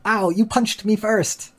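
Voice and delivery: high, slow whiny 'Ow, you punched me first' with the stress on 'you'; whiny child quarrel. Retold or imitated. One kid whines to another that he hit first, high and slow. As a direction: play the hurt kid who blames the other.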